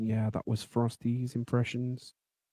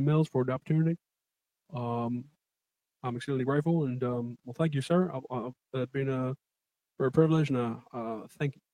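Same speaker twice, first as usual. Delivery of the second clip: lightly voiced McConaughey acceptance speech; a hint of McConaughey's laid-back thanks; gently mimicked McConaughey thanking the host; mock McConaughey; faster than usual. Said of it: "on that cue".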